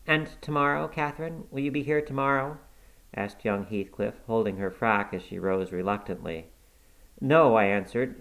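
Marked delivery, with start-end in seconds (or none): 0.1-2.6 high and fast, hurrying the question; boy begging her to return, high and quick; eager pleading. Acted. Linton clings to her, begging. 7.2-7.6 loud, high, final no; a servant putting her foot down; firm refusal. Acted.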